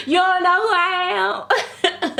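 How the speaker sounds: high, laughing, mock-offended; indignant disbelief. To the rude artist, high laughing indignation. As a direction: act insulted and amused at once. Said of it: "I was like".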